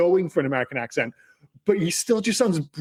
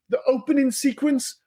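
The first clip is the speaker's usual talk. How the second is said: higher-pitched, incredulous questioning; retold disbelief; 7 semitones higher than usual. Husband retelling a film row with his wife, incredulous. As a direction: replay a baffled argument in a raised pitch. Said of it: "I said that to my wife".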